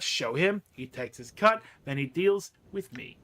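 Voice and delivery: a seedy dealer explaining his trade; a touch of the grimy merchant. Acted. Quint explains his corpse-fishing trade to Burke, lightly voiced.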